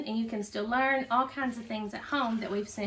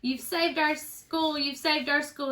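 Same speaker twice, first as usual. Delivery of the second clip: slow, higher jubilant cry; jubilant roar; 4 semitones higher, slower than usual. Acted. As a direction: proclaim the good news with joy. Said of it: "he jubilantly roared".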